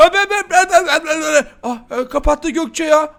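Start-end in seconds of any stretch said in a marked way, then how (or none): 0.1-1.4 wild unhinged ranting. Pretend. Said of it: "herhalde deli taklidi işe yaramadı".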